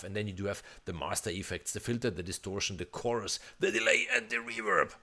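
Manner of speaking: fast list running out of breath; rushed breathless list. Real, not acted. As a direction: rattle it off until breathless. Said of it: "now I'm out of breath".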